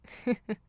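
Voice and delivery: short amused chuckle; a brief, playful laugh at their expense; teasing chuckle. Acted. Teasing the servant.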